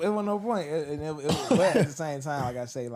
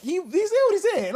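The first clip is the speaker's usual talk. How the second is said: laughing; 6 dB louder than usual. Retold or imitated. Laughing retelling.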